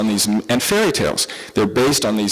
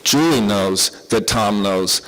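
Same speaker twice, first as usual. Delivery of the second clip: slow demo example; 3 semitones lower, slower than usual. Shown as a demonstration. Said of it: "Fourth order would be".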